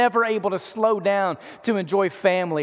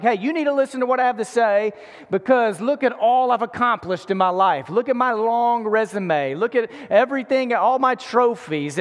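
boastful mock; 3 semitones higher than usual. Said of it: "saying things like".

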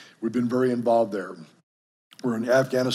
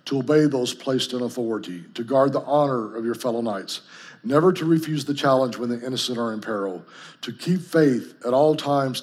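ringing, louder vow recital; solemn recitation; 4 dB louder than usual. Acted. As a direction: proclaim each vow, louder. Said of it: "I want to read you guys this code".

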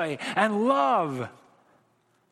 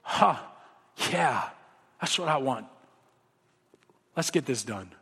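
calm father; 6 semitones lower than usual. Retold or imitated. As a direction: settle the child gently. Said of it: "And he goes".

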